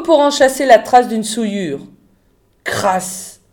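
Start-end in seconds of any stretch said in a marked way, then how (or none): 2.6-3.4 muttered through teeth. A narrator's reading. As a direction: mutter it softly between clenched teeth. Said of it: "marmonna-t-il entre ses dents".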